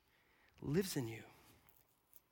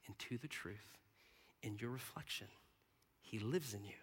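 soft, low, measured recitation; quiet spoken song words; reverent lyric reading; 5 semitones lower, 7 dB quieter than usual. Acted.

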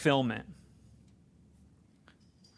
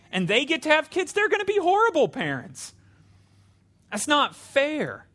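whiny envious complaint; 5 semitones higher than usual. Retold or imitated. Envious believers' inner complaint voiced.

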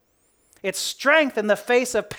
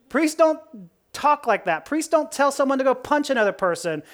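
pointed sarcasm, pitched higher; Paul; 5 semitones higher than usual. Acted. Paul criticizing the high priest, sarcastic. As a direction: keep up the mock-innocent sarcasm. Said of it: "responding in a very sarcastic tone".

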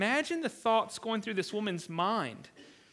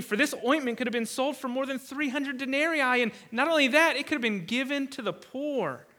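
mildly indignant retold complaint, pitched up; indignant protest; 3 semitones higher than usual. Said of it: "They're indignant. They're, they're irate".

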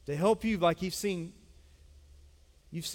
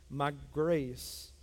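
solemn God's voice; 4 semitones lower, slower than usual. Acted. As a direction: speak God's answer gently and slowly. Quoting God's answer solemnly.

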